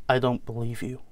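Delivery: quiet American disbelief; American son, softly refusing to believe; American accent. Acted. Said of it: "James will be in an, an American accent".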